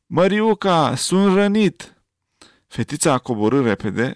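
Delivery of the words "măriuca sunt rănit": higher, pained cry of the wounded; wounded groan. A narrator's reading. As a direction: call out hurt and urgent. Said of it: "a gemut". (strigăt de rănit, îndurerat)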